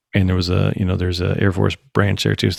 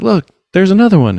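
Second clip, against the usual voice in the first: imitating an excited stepdaughter, higher and louder; excited sighting; 11 semitones higher, 6 dB louder than usual. Stepdaughter pointing out another orb in the sky, excited. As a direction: call out a new discovery, pitch up.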